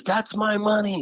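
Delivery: high, indignant, mildly upset; a mock protest from mom. Mom objecting to her son holding the insurance, high and indignant. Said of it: "you know, all upset".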